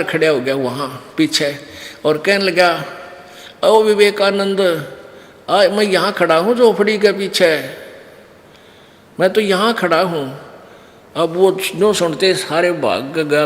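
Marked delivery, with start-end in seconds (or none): 3.6-10.4 calling out. Retold or imitated. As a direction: call out to them, a little raised. Kabir calling out from behind hut.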